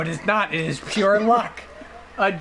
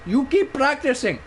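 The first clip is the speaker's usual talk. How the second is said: imitated Indian clerk; 5 semitones higher than usual. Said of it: "this guy looked at me as I did that voice impression".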